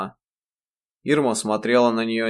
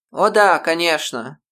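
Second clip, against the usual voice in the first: небрежно; 7 semitones higher, 6 dB louder than usual. A narrator's reading. Грейс небрежно отвечает.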